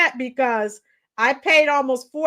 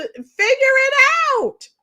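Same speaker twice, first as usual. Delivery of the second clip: sharp retort; 10 semitones higher than usual. Retold or imitated. Retorting to quoted complainers.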